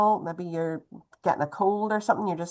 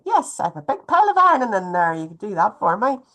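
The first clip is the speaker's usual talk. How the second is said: eager yes; 2 semitones higher, 4 dB louder, faster than usual. Retold or imitated. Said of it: "people come and say".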